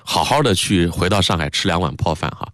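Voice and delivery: everyday Mandarin wish, little feeling; understated Mandarin version; Standard Mandarin. Shown as a demonstration. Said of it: "如果用普通话说".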